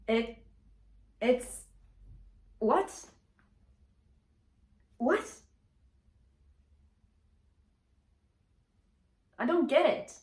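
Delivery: genuinely confused disbelief; baffled. Real, not acted. Baffled by unsubscribers.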